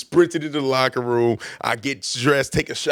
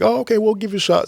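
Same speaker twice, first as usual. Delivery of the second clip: put-on girlfriend's voice; 11 semitones higher than usual. Girlfriend voiced in retold story.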